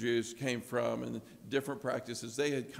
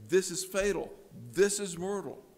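louder, firm verdict of a physician; doctor's grave diagnosis; 6 semitones higher, 7 dB louder than usual. Retold or imitated. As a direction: deliver the diagnosis like a serious doctor. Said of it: "hear this in the tone of a doctor".

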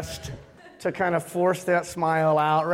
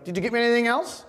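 higher, quick, imitated kid's question; innocent child; 6 semitones higher, faster than usual. Son asking for more after opening gifts, innocently imitated. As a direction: ask it like an innocent little boy. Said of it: "innocently, after he'd open, ... he'd be like".

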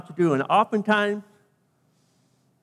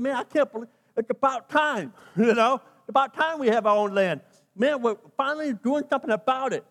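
excited Moses; 3 semitones higher than usual. Acted. Excited Moses voiced in sermon.

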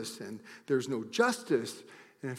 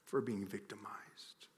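whisper; 2 semitones lower, 6 dB quieter than usual. Real, not acted. Soft drop after anger.

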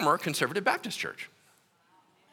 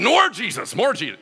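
eager craving; 5 semitones higher, 6 dB louder than usual. Retold or imitated. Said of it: "I was just like".

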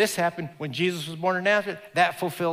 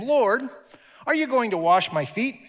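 excited Peter; 7 semitones higher, 6 dB louder than usual. Acted. Peter voiced in retold story.

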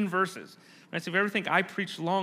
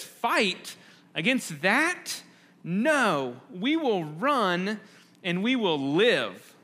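doubtful veteran; much slower than usual. Retold or imitated. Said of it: "this older veteran soldier, who says".

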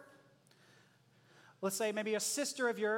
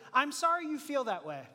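fake apology; 2 semitones higher than usual. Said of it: "what if they made the apology".

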